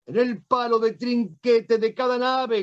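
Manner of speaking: high shouted rallying cry; shouting battle orders. Retold or imitated. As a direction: cry it out to the whole fleet. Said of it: "gritaba Juan de Austria".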